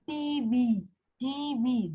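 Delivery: "T V" with T and V equally long; both syllables stressed. Shown as a demonstration. Teacher demonstrating a spondaic foot, both syllables stressed. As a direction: give each letter of "T V" full weight. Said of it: "Spondaic is two stressed syllables".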